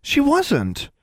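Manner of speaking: high-pitched, urgent protest; anxious, high denial; emphatic denial. A narrator's reading. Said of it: "shook her head vigorously".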